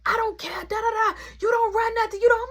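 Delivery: hammed-up angry woman arguing; mock argument. Arguing downstairs, imitated.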